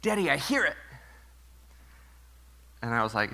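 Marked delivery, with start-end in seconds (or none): 0.0-0.8 put-on child's whisper. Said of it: "And she goes".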